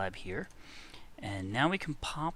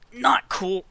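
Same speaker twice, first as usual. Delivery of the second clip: high whispered dismay; 11 semitones higher, 12 dB louder than usual. Real, not acted. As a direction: breathe it out, worried. Glitch worry.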